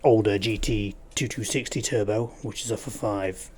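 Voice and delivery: talking while crunching chips; chewing crisps mid-sentence. Real, not acted. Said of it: "Sorry about the crunching".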